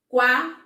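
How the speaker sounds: "Qua-ren-ta" in three beats with long pauses; loud, widely spaced syllables in "Qua-ren-ta" for counting. Shown as a demonstration. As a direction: punch out "Qua-ren-ta" one syllable at a time. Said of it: "eu falei três vezes".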